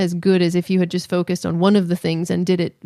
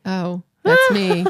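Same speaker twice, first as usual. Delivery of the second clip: slow, high mock dad voice; dad imitation; 10 semitones higher, much slower than usual. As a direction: drag it out like a proud dad. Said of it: "he's like".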